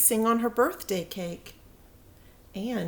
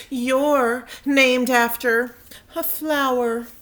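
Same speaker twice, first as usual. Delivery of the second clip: taunting; 3 semitones higher, 6 dB louder, slower than usual. Acted. Victoria taunts Chrysanthemum.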